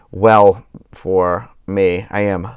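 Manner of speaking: talking through a yawn. Real, not acted. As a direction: say it mid-yawn. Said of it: "I wasn't yawning until we started this".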